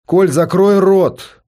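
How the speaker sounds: sharp, loud and slow order to shut up; commanding shout. Acted. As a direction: bark the command at your son. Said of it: "велела мама".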